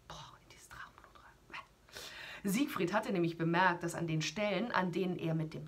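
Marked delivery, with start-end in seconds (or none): 0.1-2.5 soft, slow marvelling aside; as if shuddering at the thought; hushed awe. Real, not acted. Narrator to the child, softly awed by the dragon's blood.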